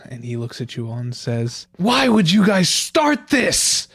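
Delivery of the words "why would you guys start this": put-on slow, high older child voice; big kid voice. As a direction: play a whiny eight-year-old. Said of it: "a big kid voice for it".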